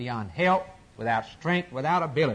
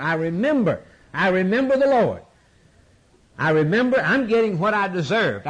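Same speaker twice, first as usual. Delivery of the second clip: Jonah crying out; 3 semitones higher, 3 dB louder than usual. Retold or imitated. Preacher voicing Jonah crying to the Lord, a raised pleading cry.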